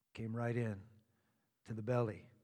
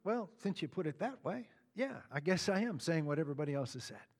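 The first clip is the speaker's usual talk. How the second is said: lightly acted, softer reluctant admission; Pilate; 3 semitones lower, 9 dB quieter, faster than usual. Pilate giving in to Jesus's question, softly conceding. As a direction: concede it quietly, tailing off quicker and lower. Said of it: "let me be Pilate for a moment".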